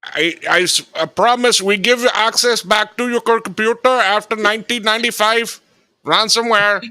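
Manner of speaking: put-on high, sing-song scammer accent; put-on Asian accent. Ransomware scammer to victim, high put-on accent. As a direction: pitch it up like an overseas scammer. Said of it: "The way he sounded".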